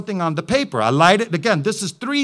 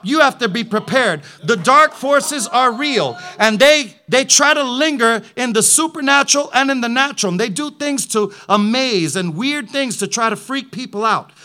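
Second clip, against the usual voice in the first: preaching; 3 semitones higher, 3 dB louder than usual. Acted. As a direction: warn the congregation with conviction. Preaching warning about dark forces.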